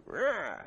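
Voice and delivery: small mock roar, lightly done; a tiny mouse "Rah!", playful and soft; little tiny roar. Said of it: "does a little tiny".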